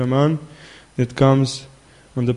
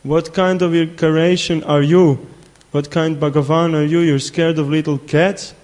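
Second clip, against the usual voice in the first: louder, mock-exasperated mother's rebuke; mildly angry scolding; 3 semitones higher, 6 dB louder than usual. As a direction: scold the child with raised voice, lightly acted. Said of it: "she became a little bit angry".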